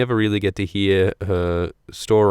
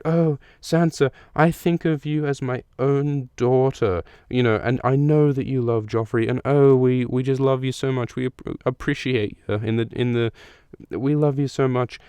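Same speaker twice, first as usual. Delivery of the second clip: higher, sugary, motherly coaxing; honeyed motherly Cersei; 5 semitones higher than usual. Retold or imitated. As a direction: lay the false sweetness on thick. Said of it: "here she really turns it on".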